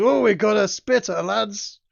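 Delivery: demon voice, high, drawn-out roaring laughter. Game master voicing a demon in a tabletop game, roaring with laughter. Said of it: "roars with laughter and goes".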